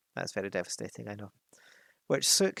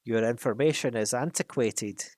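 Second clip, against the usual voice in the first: snapped. Acted. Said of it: "he snapped".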